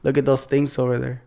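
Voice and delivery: light Hispanic accent with a hissed S in "things"; slight Hispanic accent on the S of "things". Shown as a demonstration. Friend showing how Hispanic speakers sound, light Hispanic accent. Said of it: "some Hispanic people might say".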